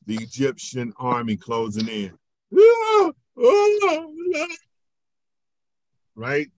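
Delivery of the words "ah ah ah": short high, loud screams of terror; panicked screams. Acted. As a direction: scream as if an army is closing in. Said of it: "when you heard and saw the Egyptian army".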